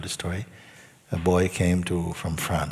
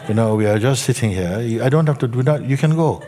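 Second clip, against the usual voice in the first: louder, higher, a touch of exasperation; retold telling-off, faster at the end; exasperated; 4 semitones higher, 6 dB louder than usual. Teacher telling the restless student he is free to go, exasperated.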